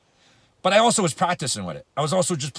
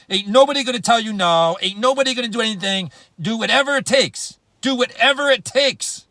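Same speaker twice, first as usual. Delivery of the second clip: louder, driving and rising, pushing each line harder; rallying shout; 4 semitones higher, 4 dB louder than usual. Acted. Motivational speaker rallies the team with a rising shout. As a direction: pump them up like a coach at full force.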